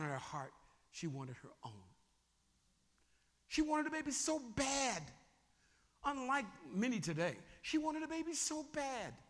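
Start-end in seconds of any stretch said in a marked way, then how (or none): 3.5-5.0 raised emphasis. Shown as a demonstration. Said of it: "Can I demonstrate it for you?". 7.6-9.1 ache through the words; raised emphasis again. Shown as a demonstration. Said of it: "Can I demonstrate it for you?".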